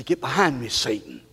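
very low, soft command; quiet rebuke. Shown as a demonstration. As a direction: say it under your voice, firmly. Models rebuke, building in three takes.

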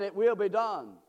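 firm, loud proclamation; emphatic restatement. Real, not acted. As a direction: drive it home forcefully.

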